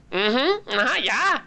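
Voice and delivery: girlfriend's mock Korean accent. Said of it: "she's like".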